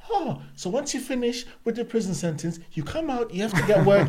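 high sing-song lecturing tone; mocking preachy voice. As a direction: parody a dull prison talk. Mocking slides talk in prisons.

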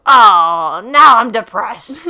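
dad groaning at the football score; mock scream. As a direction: yell at the lost game. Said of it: "Jack screams".

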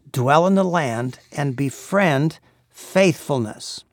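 slow, reverent reading of the verse; slow scripture reading. Acted. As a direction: draw out "Dwell in the land and befriend faithfulness" as holy words. Reciting scripture slowly.

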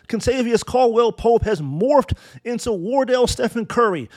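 name lifted with sarcastic wonder; mock amazement. Real, not acted. Fan marvels at the former Laker's new form, mock amazed. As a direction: sell the transformation with feigned awe.

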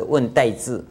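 Taiwanese-accented 问代志, said as the corrected term; Taiwanese pronunciation. Shown as a demonstration. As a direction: switch into Taiwanese for 代志. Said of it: "不是问大事".

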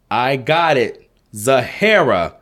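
excited exclaim. Acted. Little girl finds the baby's name, excited shout. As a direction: blurt it out, thrilled. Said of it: "Zalea exclaimed".

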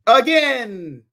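high, loud, drawn-out Christmas cheer; mock-festive holler, long vowels; Fairly Odd Parents quote. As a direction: stretch it out like a cartoon proclamation. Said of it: "I got that from Fairly Odd Parents".

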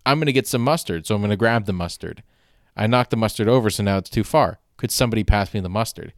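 quick matter-of-fact reasoning; logical math equation. Retold or imitated. Dad explaining the knocked mustard, matter-of-fact and quick. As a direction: reason it out step by step, fast and flat. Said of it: "almost like a math equation".

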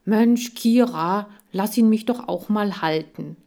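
lightly voiced impatient boy; pleading boy. Boy begs to hold hamster.

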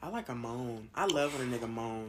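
breathy whisper, seductive. Real, not acted. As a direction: whisper it like a secret. Sultry confession.

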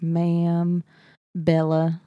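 slow West Texas "Ma'am, Bella"; West Texas accent. Retold or imitated. Showing how Jasper talks, West Texas drawl. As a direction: draw out each word, West Texas style. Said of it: "That's a West Texas accent".

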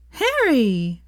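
high, loud delighted call; joyful call. Acted. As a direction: greet him with a leap of joy. Hermione leaps to greet Harry.

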